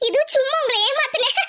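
giggling confession of a prank; wife laughing that she fooled her husband. Acted. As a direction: laugh while owning up to the trick. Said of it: "என்னடி தமிழு சிரிக்கிற?".

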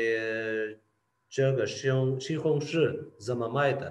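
slow Chinese question at the market; shopper asking price. Retold or imitated. A learner asks a vendor the price, slowly. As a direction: ask slowly how much the tomatoes cost. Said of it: "आप पूछेंगे".

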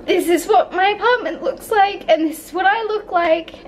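nervous laugh. Real, not acted. Laughing despite distress.

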